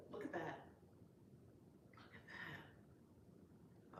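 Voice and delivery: breathless whisper, slow and hushed; awed whisper. Real, not acted. Vlogger to viewers, whispering in awe at a card. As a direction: hush in awe over the art.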